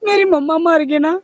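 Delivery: tearful plea, pitch climbing as it goes; real crying. Real, not acted. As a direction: break down pleading for your mother. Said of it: "ਚੱਲ ਤੂੰ ਰੋ ਨਾ".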